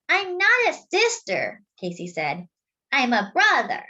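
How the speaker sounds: put-on high, firm little boy; insistent child. Casey correcting the girl, high and insistent. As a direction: insist on it, chin up.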